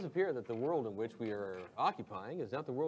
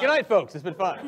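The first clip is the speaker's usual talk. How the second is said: loud mock farewell; 6 semitones higher, 13 dB louder than usual. Mock farewell after doom.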